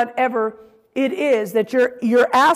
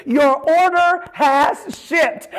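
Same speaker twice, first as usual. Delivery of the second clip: triumphant announcement; 4 semitones higher, 3 dB louder, much slower than usual. Acted. Announces answered prayer like delivery notice.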